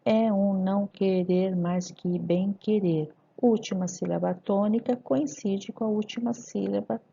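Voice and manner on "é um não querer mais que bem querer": "É um não querer mais que bem querer" slow, even syllables; poetic scansion. Shown as a demonstration. Teacher scanning the decasyllable, slow and syllabified. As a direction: step evenly through each syllable. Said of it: "E as sílabas poéticas?".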